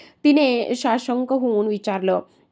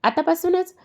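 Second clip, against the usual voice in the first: high, pouty little question; pouting whine; 8 semitones higher than usual. A narrator's reading. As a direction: whine it up high like a sulking girl. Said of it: "तिने बारीक चेहरा करून विचारलं". (उंच, लाडिक तक्रारीचा सूर)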